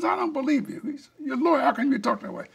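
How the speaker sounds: mock outraged disbelief; indignant wife. Wife's indignant retort in quarrel.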